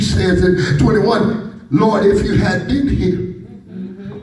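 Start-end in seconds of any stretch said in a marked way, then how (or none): 1.7-4.2 slow, pointed reproach to the Lord; Martha with attitude. Acted. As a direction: lean on every word, slow and accusing. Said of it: "Martha has an attitude".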